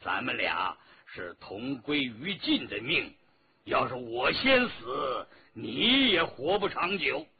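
stubborn captive with emphatic swells; defiant prisoner. Acted. Captive refuses to yield to the emperor, defiant. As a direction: throw it defiantly at your captor, punching key words.

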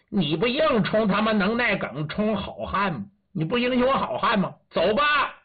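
high-pitched mocking challenge; jeering taunt. Captor taunts the prisoner at gunpoint, jeering. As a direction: rise to a sharp order, jeering.

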